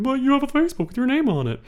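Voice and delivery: high, fast mock disbelief; incredulous cops. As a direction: rattle it off like a smug detective. Police mocking the suspect.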